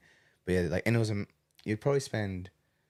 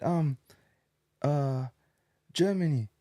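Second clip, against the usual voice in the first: teasing; 8 semitones higher, 6 dB louder, slower than usual. Retold or imitated. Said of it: "teasing wrong guesses".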